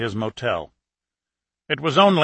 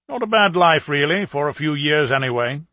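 chatty working-class British bloke at the bar; lightly voiced pub regular, friendly and gossipy; British plumber; 3 semitones higher than usual. Plumber reflects on soldiering.

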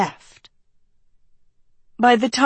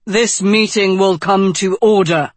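declaring. Acted. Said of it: "Tedros declared".

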